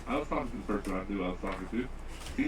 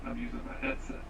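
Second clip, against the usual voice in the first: robotic voice; 4 dB quieter than usual. Real, not acted. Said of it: "even though you sound robotic".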